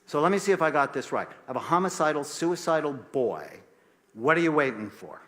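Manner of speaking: indignant, pressing challenge, retold with force; heated mock showdown on the phone; exasperated retort. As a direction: lay out the absurdity, exasperated. Retold argument with the pediatrician.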